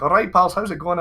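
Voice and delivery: lively Scottish hello to strangers; broad Scottish greeting. Retold or imitated. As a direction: hail your pals in broad Scots. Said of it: "we do talk very quickly in Scotland".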